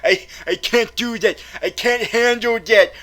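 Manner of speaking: ordinary talk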